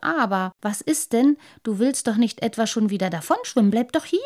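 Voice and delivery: quick, coaxing sly fish voice. Acted. Lamprey coaxing the boy not to swim off. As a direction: coax him to stay.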